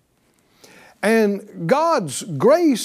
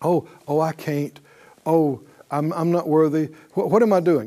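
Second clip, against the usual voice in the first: mock timid believer; 5 semitones lower than usual. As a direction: shrink back in false humility. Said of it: "what's the tendency".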